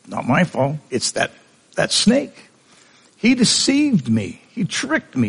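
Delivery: whiny Eve. Retold or imitated. Eve pleading to God that the snake tricked her, high and whiny. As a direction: squeak out the blame like a caught child.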